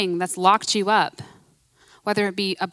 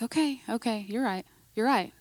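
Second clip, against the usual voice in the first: softer, humble reply to God; quiet answer; 6 dB quieter than usual. Retold or imitated. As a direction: answer meekly, half under your breath. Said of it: "I'm like".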